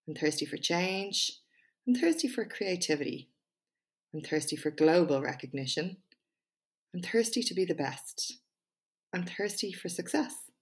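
measured TED-style delivery with pauses; TED Talk voice. Pretend. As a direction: read it like a prepared TED Talk, punching key words. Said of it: "in my best TED Talk voice".

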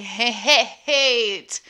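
breaks into laughter mid-word; can't get the word out for laughing; laughing stutter. Real, not acted. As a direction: stammer it out through real laughs.

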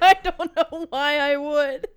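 slow mocking quote through laughter; laughing imitation of his answer; amused mimicry. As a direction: repeat it slowly, cracking up.

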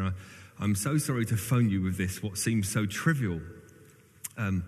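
put-on earnest phone apology in a West Country accent. Older friend phoning the vicar about a coat, West Country accent. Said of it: "in his best West Country accent".

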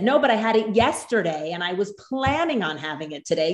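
lightly acted child arguing their case; imitating an indignant child, pitch swooping up; protesting kid. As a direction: put on a kid's insistent protest. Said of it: "the other kid said".

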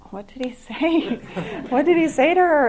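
high-pitched, puzzled retold question; mock confusion, pitched well up; acted bewilderment. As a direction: play the baffled onlooker, voice lifting. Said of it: "he was just confused".

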